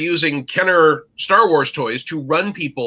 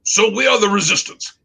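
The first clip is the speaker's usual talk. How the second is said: higher, questioning mock British accent; terrible British accent; 5 semitones higher than usual. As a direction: ask it as an elderly Briton in a put-on English accent. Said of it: "I will do my terrible British accent".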